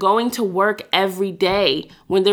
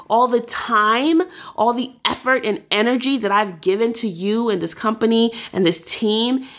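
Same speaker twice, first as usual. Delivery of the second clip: indignant outburst; 3 semitones higher than usual. Retold or imitated. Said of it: "These are some feelings".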